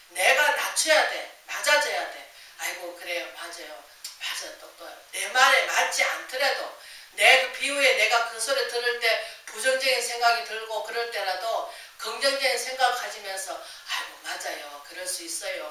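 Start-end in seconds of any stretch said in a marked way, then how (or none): 2.6-5.0 quiet, yielding yes-yes voice; soft humble agreement. Pretend. Preacher models humbly agreeing with a neighbour, soft and yielding. 13.5-15.7 quiet, yielding yes-yes voice; soft humble agreement. Pretend. Preacher models humbly agreeing with a neighbour, soft and yielding.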